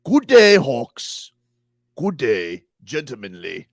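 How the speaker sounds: mock farewell.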